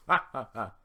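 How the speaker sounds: very loud, high slow roar of a laugh; Shrek's laugh and shout. Acted. Shrek chases off the villagers with a bellowing laugh. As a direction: laugh and yell them off. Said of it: "He laughs".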